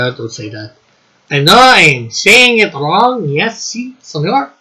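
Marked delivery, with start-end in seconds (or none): 1.3-4.5 swooping, sing-song mock Spanish accent; hammed-up Spanish accent with bouncing pitch; bad Spanish accent. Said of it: "Your bad accent".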